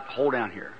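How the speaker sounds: low, softened confiding voice; secretive aside. Retold or imitated. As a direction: keep it between the two of you. Secretly hushing the man beside him.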